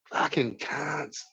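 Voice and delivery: slow, soft, savoured "Fucking cunt." with the weight on "cunt"; drawn-out catchphrase. Shown as a demonstration. Streamer testing a longer catchphrase for chat, slow and soft. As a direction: lean into "cunt" and let it fall slowly. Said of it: "I need a catchphrase".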